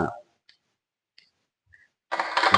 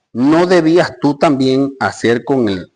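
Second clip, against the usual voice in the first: louder, slower reproach; angry king; 4 semitones higher, 5 dB louder, slower than usual. Acted. King reproaches servant, loud and slow. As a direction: press the question as the wronged master. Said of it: "su señor enojado".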